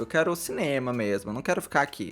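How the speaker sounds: lightly voiced smug star; mocking Zac. Mocking Zac's boast to his castmates, mildly smug. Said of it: "Óbvio que não pega bem falar isso".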